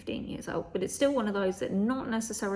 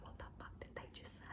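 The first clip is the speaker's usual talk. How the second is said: soft whispered aside; whispered what did they say; whispered frustration; 22 dB quieter, faster than usual. Retold or imitated. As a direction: mutter it under your breath, baffled. Can't hear on the phone.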